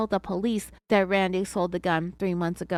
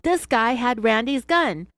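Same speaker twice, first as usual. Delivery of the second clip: mild retold yell; 3 semitones higher, 5 dB louder than usual. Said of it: "And then he yelled".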